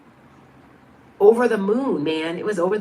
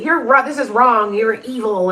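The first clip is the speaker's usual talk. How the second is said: louder, higher imitation of accusers; retold scolding, pushed up at the start; mock accusation; 3 semitones higher, 5 dB louder than usual. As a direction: imitate people condemning you, raised voice. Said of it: "'cause people say".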